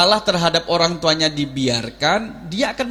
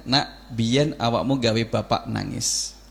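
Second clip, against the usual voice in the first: gentle parent telling; 6 semitones lower, much slower than usual. Retold or imitated.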